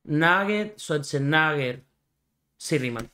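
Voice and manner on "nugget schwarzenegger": "Nugget, Schwarzenegger" with the A stressed in each. Shown as a demonstration. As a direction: sound out "Nugget" and "Schwarzenegger" slowly, leaning on the A. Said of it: "Debe tener acento en la A".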